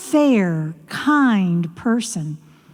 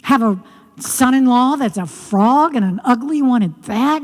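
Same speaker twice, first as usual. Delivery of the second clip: grumbling to herself. Acted. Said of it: "mumbling to herself".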